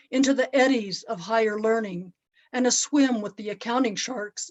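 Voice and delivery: measured poem recital with pauses between phrases; unhurried spoken-word reading of a life story; poetry reading. Acted. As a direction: recite it line by line, each phrase gently falling.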